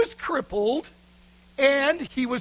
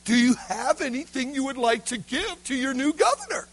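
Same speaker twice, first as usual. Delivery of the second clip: insistent governor; 2 semitones higher than usual. Acted. Governor asking the stunned boy again for a gift, insistent. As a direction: repeat it clearly with raised pitch.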